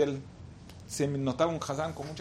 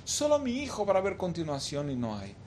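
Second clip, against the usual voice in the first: imitating a weeping plea, mostly restrained; tearful lament; 3 semitones higher than usual. Father mourning his lost son before God, mock-tearful lament. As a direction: plead with God in grief, lightly acted. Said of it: "Empezó a llorar diciendo".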